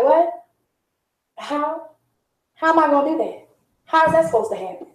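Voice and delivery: lightly voiced stunned mom, pitch lifted; a hint of a confused young mother going What, How; baffled disbelief. Overwhelmed new mom hearing self-care advice, mildly incredulous.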